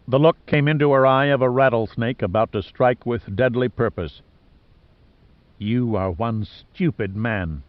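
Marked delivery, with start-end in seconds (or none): 5.6-7.6 slow, cold put-down in a character voice; cold contempt. A narrator's reading. Boudicca to Giordino before throttling him, cold contempt. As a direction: say it slowly, icy and deliberate. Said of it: "she said coldly".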